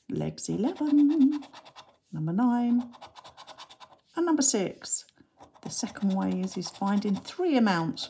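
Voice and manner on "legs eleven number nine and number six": bingo caller. Acted. Bingo call on scratch card.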